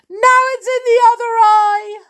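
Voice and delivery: high, loud tearful cry; sobbing yell. A narrator's reading. Amelia crying out to Tom about soap in her eye. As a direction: wail it, stung again. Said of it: "Amelia Jane sobbed".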